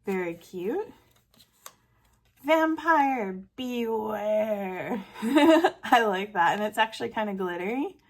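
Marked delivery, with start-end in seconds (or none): 2.4-6.5 slow, laughing through the title. Real, not acted. Crafter reading a card title, laughing. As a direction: read it while cracking up.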